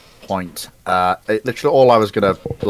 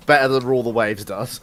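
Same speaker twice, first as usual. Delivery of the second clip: usual speaking voice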